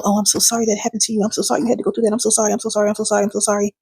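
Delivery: fast, breathless string of sorries; frantic repeated sorry; gushing over-apology. Shown as a demonstration. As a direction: pile on the apologies in a rush. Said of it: "instead of".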